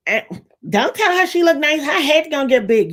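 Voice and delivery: high mock catty voice; catty gossip. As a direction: sneer like a jealous friend. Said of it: "people come from the ilk of".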